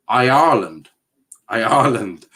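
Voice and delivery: "Ireland" with a separate "I" before it; practised pronunciation. Shown as a demonstration. Streamer practises the word for chat, broken into parts. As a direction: split off the first vowel, then say "Ireland". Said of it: "you need to pronounce the R".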